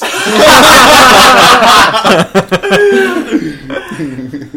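helpless loud laughing fit; long loud laugh. Real, not acted. Bursts laughing at bad translation.

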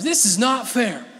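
laughing through the quoted pout; laughing imitation. Preacher repeating his girls' complaint while laughing. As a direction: let the giggle break the whine. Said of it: "That's what they say sometimes".

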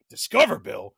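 loud laughing high whine; exasperated rant. Retold or imitated. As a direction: rant like a broke villain. Freddy frets over credit bill.

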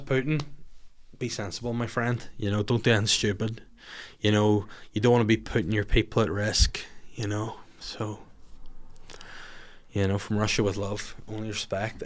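soft mock-earnest plea to Putin; mock appeal to Putin. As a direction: hush it down like a private word to Putin. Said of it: "as I know he's listening".

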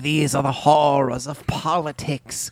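slow, spooky crypt keeper narration; a lightly voiced ghoulish host. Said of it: "I am the crypt keeper".

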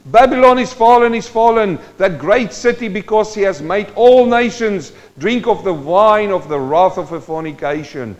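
a high, loud herald's cry; loud proclamation. Acted. Angel calling Babylon's fall to all nations, loud ringing proclamation. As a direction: ring it out like an angel announcing doom.

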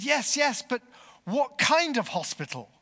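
high, loud, agitated demand; urgent questioning. Acted. Injured man questioning his carers, urgent and agitated. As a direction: press urgently for an answer.

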